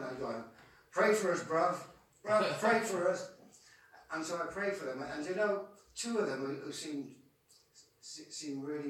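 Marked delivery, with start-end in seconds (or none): 0.9-3.3 eager lads calling out. Retold or imitated. Lads crowding round, begging prayer.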